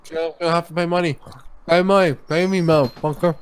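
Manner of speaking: talking through a mouthful of chips; eating chips. Real, not acted. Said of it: "I can't even understand you".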